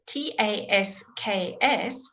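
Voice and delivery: slow careful tasks, every letter sounded; teacher stressing every sound; spelled slowly. Shown as a demonstration. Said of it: "we do say all of it".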